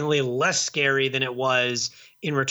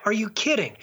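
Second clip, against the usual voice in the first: incredulous; 6 semitones higher, faster than usual. Retold or imitated. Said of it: "And I'm like".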